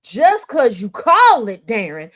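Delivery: lightly imitated comedian, punched loud; slow, emphatic quote with a loud CALL; Cat Williams. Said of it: "what Cat Williams say?".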